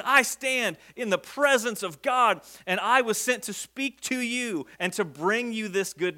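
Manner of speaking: a touch of indignant authority; mildly indignant. Acted. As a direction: pull rank with measured emphasis. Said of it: "he's kind of a little bit, like, indignant here".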